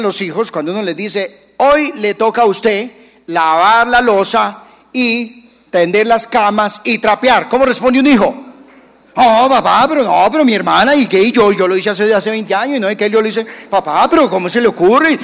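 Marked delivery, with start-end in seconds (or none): 1.6-7.5 a parent handing out chores, a bit louder; slightly raised voice laying down the chores; bossy parent. Retold or imitated. Father telling his son his chores, firm and a little loud. 9.2-15.2 put-on loud, fast, protesting kid; whining child. Son whining to dad about washing dishes, loud and fast.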